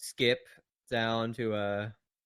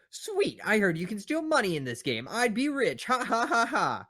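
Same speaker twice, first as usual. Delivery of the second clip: excited Eddie voice; 10 semitones higher than usual. Acted. Eddie voiced reading GTA.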